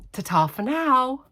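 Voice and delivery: high, slow sing-song goodbye; drawn-out high farewell, teasing her; mimicking her sign-off. Family teasing the vlogger by copying her sign-off, slow sing-song. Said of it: "they always say to me".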